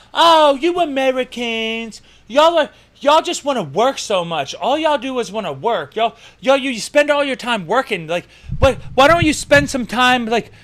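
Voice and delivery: high-pitched mock British lady. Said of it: "this fucking British lady was telling me, she was like".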